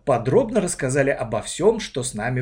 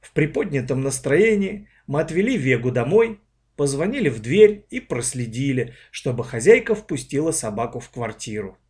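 usual speaking voice

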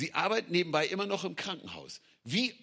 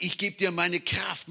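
preacher's shout; 2 semitones higher than usual. Acted. God proclaiming his power.

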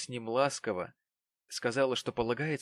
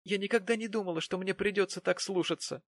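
higher, gently tearful voice; mild tearful plea; 8 semitones higher than usual. A narrator's reading. Young wife pleading with her husband, mildly tearful. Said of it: "рыдая ответила бедняжка".

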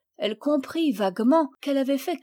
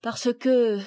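flustered stammer; 3 semitones higher, 4 dB louder, slower than usual. Acted. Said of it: "Elle rougit et se tut".

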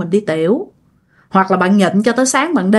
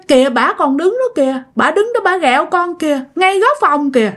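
lightly voiced little boy, higher pitch; young child; 6 semitones higher than usual. Son shows his father where the ghost stands, lightly voiced child. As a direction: point it out in a mildly imitated child's voice. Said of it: "Cái nó nói".

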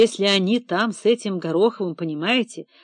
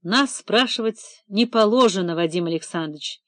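curt. Acted. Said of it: "отрезал Лосев".

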